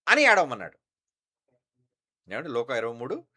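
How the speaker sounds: ordinary delivery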